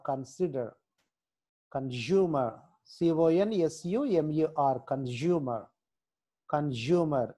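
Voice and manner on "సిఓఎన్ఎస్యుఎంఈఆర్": slow, letter by letter; spelling out slowly. Shown as a demonstration. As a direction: spell it out slowly for the class to copy. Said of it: "మీరు spelling చూస్తూ".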